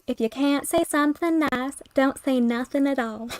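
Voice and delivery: slow Southern drawl, lightly done. Pretend. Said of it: "Southern drawl".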